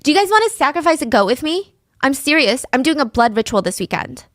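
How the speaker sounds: lightly voiced pushy schoolgirl, starting high; loud schoolgirl. Loud girl inviting classmates at school, lightly imitated eagerness. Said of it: "she was loud".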